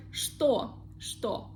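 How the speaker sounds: что as SHTO. Shown as a demonstration. Teacher showing learners another exception, что pronounced SHTO. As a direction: say что with an opening "sh" in place of ч. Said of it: "we pronounce it like sh".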